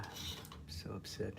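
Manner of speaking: slow whispered upset; slow hushed whisper of frustration. Real, not acted. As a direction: whisper it slowly, deflated. Painter unhappy with the painting.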